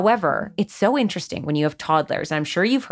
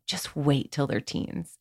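slower and softer, full of happy anticipation; hopeful and tender; 5 semitones lower, 9 dB quieter, slower than usual. Shown as a demonstration. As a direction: promise something wonderful ahead. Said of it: "If we just change the tone of voice".

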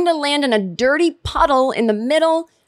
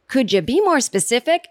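Carrie's dry comeback; 4 semitones higher than usual. Retold or imitated. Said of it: "And Carrie says".

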